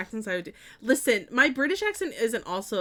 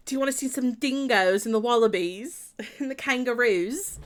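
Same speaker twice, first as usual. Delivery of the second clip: light, amateur Aussie accent; Australian accent; 3 semitones higher, 4 dB louder than usual. Shown as a demonstration. Teasing her sister at the zoo in a light Australian accent. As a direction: put on a small Australian accent, with a giggle. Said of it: "like, a small Australian accent".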